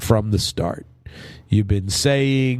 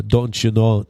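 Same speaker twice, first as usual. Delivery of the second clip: put-on Minnesota accent. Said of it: "they talk like a".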